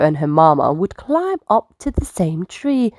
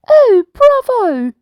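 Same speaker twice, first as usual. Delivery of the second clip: a high, louder, slow cheer; booming bravo; 6 dB louder, slower than usual. Acted. Sea lion cheers Nina's song, booming bravo. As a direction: call it out with big delight. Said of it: "boomed a voice".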